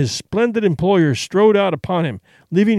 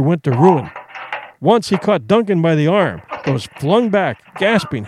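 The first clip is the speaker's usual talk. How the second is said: story narration. A narrator's reading. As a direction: tell the fight like an audiobook narrator.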